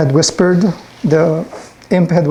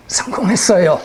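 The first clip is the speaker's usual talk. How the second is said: slightly higher, lightly voiced imp; a hint of a triumphant little messenger; pleased little imp; 4 semitones higher, much faster than usual. Imp reporting back to its master, pleased.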